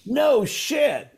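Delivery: high, loud no shit; disbelieving exclamation; surprised. Real, not acted. Friends disagree about the album, high surprised reaction. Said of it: "surprised at the answer".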